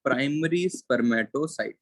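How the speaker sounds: very slow, word by word; slow dictating voice; dictation pace. Shown as a demonstration. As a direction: read it out slowly for notes. Dictating notes to class.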